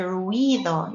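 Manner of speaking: "ruido" as RWEE-do, the I heard over the U; stress on the I. Shown as a demonstration. Teacher showing I coming second, "ruido" stressed on the I. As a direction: lean on the I of "ruido", gliding past the U. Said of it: "hear the I more than the U".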